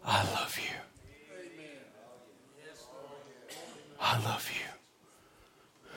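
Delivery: tearful whisper of comfort; whispered voice of God. Acted. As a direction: breathe it like the Lord close by. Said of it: "his voice say".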